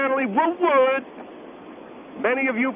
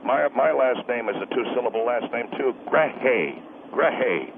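angry husband; 12 semitones lower than usual. Acted. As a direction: step in as the husband, low and threatening. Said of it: "I'm the husband of the lady".

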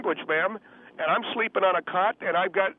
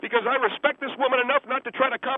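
agitated, higher-pitched self-righteous protest; angry; 3 semitones higher than usual. Acted. Guest defends his morals to host and woman, angry. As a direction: refuse to calm down, arguing heatedly. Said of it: "if you're so angry about it".

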